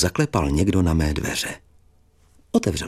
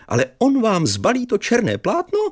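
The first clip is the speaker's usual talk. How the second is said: put-on old teacher's voice. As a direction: stretch it out like a startled old teacher. Teacher still speaking.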